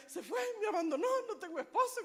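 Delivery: lightly acted indignation; retold angry complaint. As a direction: replay the outburst in quick miniature. Re-enacting her angry outburst.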